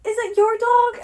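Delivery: high, loud mock question; mimicked passer-by. Voicing passers-by questioned about dog.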